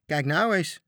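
loud, high shout. Acted. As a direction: yell in surprise to the captain. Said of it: "schreeuwden de matrozen". (matrozen schreeuwen verrast)

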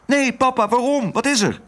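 put-on high, coaxing girl voice; sweet little girl. A narrator's reading. Otje coaxing Herman, high and sweet. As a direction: charm the dog gently.

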